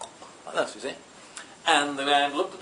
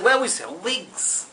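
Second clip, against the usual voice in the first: shopkeeper repeating; 6 semitones higher, slower than usual. Acted.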